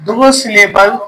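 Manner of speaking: slow, word by word, for pupils to write down; spaced out, leaving time to write; slow dictation. Shown as a demonstration. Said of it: "यही लिखवाया मैंने".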